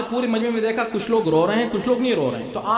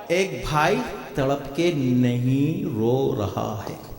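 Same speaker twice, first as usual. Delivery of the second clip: very slow, low, deliberate tone; low, measured, lingering delivery; low and drawn-out; 8 semitones lower, much slower than usual. Real, not acted. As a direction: sink the voice and stretch each word. Contrasts two brothers, weeping and not.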